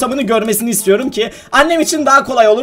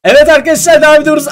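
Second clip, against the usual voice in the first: upbeat intro; 6 semitones higher, 4 dB louder, faster than usual. Acted. Vlog segment intro to viewers.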